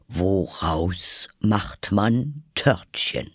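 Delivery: slow, deep, solemn king's voice. A narrator's reading. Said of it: "sagte er mit tiefer Stimme".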